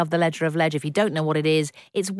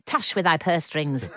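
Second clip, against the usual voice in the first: hammy stage actor. Pretend. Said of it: "dreaming in Shakespearean".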